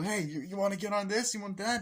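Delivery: high hammed-up pickup line; mock flirty guy.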